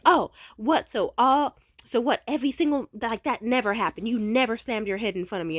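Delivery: high, loud mocking outrage; indignant outburst. Ex denying he saw her hurt, high indignant outburst. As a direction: play him sputtering in disbelief. Imitating ex's outraged denial.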